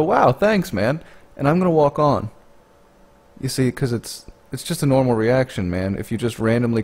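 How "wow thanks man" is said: much higher, taken-aback thanks; shocked thanks. Retold or imitated. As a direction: sound caught off guard by the kindness. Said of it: "I'm gonna be kinda shocked and go".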